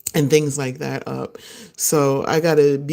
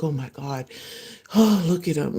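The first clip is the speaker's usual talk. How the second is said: adoring; 3 dB quieter than usual. Retold or imitated. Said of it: "You're like".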